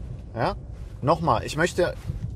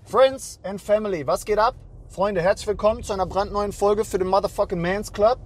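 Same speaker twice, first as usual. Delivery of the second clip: hyped intro; 5 semitones higher than usual. Acted.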